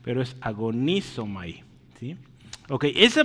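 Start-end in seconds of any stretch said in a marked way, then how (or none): 0.4-1.6 "agonizomai" as one word, stressed "agoNIzomai"; accent on the I. Shown as a demonstration. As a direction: lean on the NI in "agonizomai". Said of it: "el acento está en la I".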